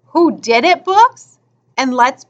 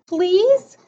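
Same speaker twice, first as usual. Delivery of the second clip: higher, questioning little plea; pleading; 5 semitones higher than usual. Acted. Boy begging a girl for a book, pleading. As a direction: ask pleadingly, pitched up with a rising end.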